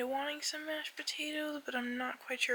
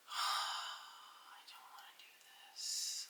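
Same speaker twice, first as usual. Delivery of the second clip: sad; 10 dB quieter, much slower than usual. Real, not acted. Dreading surgery, sighing.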